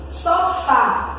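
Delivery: "Sofá" with a strong final "fá"; teacher's split "So-fá", weight on the end; stress on last syllable. Shown as a demonstration. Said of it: "o som forte está na última".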